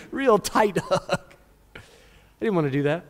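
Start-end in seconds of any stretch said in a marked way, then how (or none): 0.1-1.4 very slow, laughing mock threat; mock menace. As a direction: stretch each word through a laugh. Acted spiteful hug of sister.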